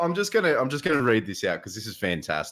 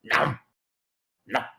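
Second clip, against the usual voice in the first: mock nom nom; 3 semitones higher than usual. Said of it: "and go".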